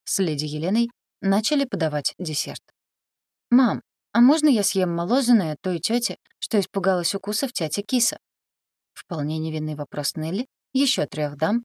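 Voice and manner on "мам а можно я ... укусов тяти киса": put-on small girl asking, higher; child voice. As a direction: innocent little girl's question. A child asks at dinner.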